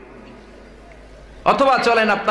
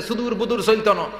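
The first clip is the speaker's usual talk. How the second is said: mock Noakhali slogan; 2 semitones higher than usual. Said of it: "আরেক দল মিছিল দিচ্ছে".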